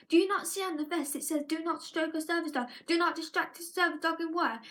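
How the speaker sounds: hammed-up outraged tirade, fast; imitating an irate owner. Service dog owner scolding a parent over a child, mock outraged. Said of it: "this person going".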